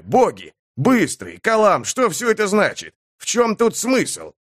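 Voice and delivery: high-pitched, agitated pleading; frantic appeal. Acted. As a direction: cry out to comrades for some sense. Frantic appeal to his comrades.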